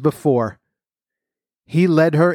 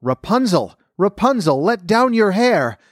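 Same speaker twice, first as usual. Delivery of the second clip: higher, calling out to her above; calling up the tower; 7 semitones higher than usual. A narrator's reading. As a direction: call her name up to the tower window. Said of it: "when the prince called out".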